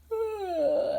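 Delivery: high, muffled little yawn; stifled yawn. Acted. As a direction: swallow a yawn halfway. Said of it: "Bert stifled a yawn".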